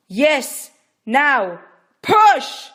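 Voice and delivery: loud, very high shout of push; yell. Acted. Midwife yelling at Rachel to push. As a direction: yell her through it. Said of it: "Yima yelled".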